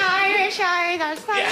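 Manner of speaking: high-pitched mock creepy toy; hammed-up horror doll catchphrase; Chucky-style doll. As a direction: pitch it right up like a possessed talking doll. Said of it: "Is it like a Chucky doll? Like, if anyone presses".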